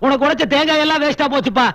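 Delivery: hammed-up despair; shocked wailing. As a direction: cry out to the heavens in shock. Servant shocked by love news.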